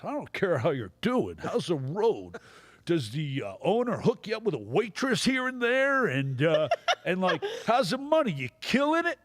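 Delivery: Rodney grilling the comic about the road; Rodney impression. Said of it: "That was a good impression".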